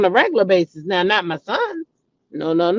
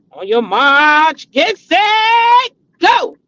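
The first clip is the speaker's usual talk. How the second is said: race start call; 5 semitones higher, much slower than usual. Retold or imitated.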